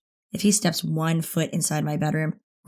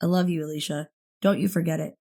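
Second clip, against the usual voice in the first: heartfelt. Acted. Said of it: "with more meaning than usual".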